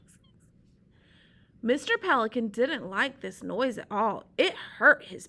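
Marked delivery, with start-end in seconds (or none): 0.1-0.6 tiny squeak. Shown as a demonstration. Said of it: "sounds like a squeak".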